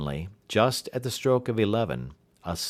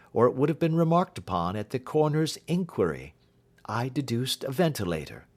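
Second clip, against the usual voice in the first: higher, brisk and assured detective; confident detective reassuring a frightened client; detective's voice; 6 semitones higher than usual. Acted. Detective bidding the client farewell, assured and higher.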